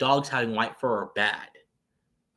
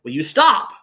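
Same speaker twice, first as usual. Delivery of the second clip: exasperated growl; 12 semitones higher, 10 dB louder, slower than usual. Retold or imitated. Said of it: "I'm like".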